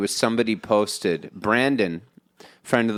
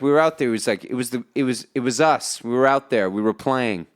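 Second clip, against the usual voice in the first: quoting Liotta's monologue. Retold or imitated.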